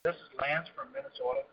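distant, off-mic caller; speaking away from the phone; far from mic. Real, not acted. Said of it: "It sounds like you're far away".

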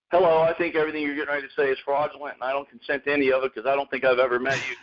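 fast, rattled-off distrustful greeting; mock suspicious phone answer. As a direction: rush it like a caller who trusts no one. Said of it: "you don't go".

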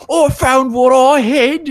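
high, slow simpleton; slow, proud village fool. Retold or imitated. Simpleton at the windmill, in a high, slow simpleton voice. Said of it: "the guy's like".

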